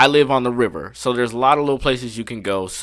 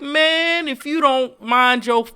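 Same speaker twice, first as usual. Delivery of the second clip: retold threat; 11 semitones higher, much slower than usual. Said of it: "I was like".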